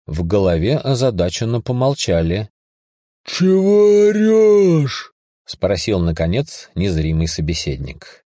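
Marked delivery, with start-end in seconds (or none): 3.2-5.1 high, loud, slow booming call; gruff voice. Acted. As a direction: bellow it back, puzzled. Voice answers; gruff Scottish voice.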